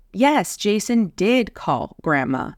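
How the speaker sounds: firm "Yes", then emphatic "did"; stress on DID. Shown as a demonstration. Answering grandpa's denial, insistent stress on "did". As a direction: contradict with weight on "did". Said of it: "use do for emphasis".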